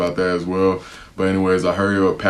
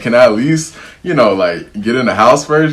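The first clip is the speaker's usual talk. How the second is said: raised, higher pitched complaint; retold indignant protest; 4 semitones higher, 5 dB louder than usual. Mom demands the keys, he protests louder and higher. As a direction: push back louder and higher at the snatched keys. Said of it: "I'm like".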